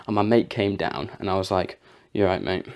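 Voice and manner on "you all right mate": flat greeting. Retold or imitated. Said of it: "that's not how you greet them".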